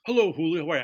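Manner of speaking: polite boarding-school gentleman, lightly imitated; Fritz. Boss politely greets his employee on the phone, mock upper-crust. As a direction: greet him loudly in a mock Thurston Howell voice. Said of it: "Fritz talked like Thurston Howell the third".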